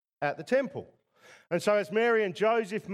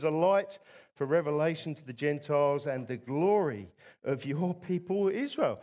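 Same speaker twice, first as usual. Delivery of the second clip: Simeon's prayer; 2 semitones higher than usual. Retold or imitated. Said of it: "Simeon says out loud".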